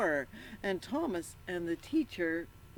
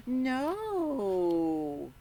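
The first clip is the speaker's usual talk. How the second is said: a short shouted no, higher; defiant no; 5 semitones higher than usual. Pretend. Thomas refuses his teacher again, a defiant shout. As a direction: dig in and refuse.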